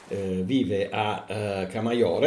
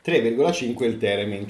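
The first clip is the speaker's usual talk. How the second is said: dictating; 2 semitones higher, 5 dB louder than usual. Acted. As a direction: spell out each item as if dictating. Counting out the instruments slowly. (come se dettasse, lento e scandito)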